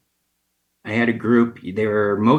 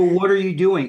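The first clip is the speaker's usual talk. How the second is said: shocked outrage; 9 semitones higher, 3 dB louder than usual. Retold or imitated. Angry at bowl being cut.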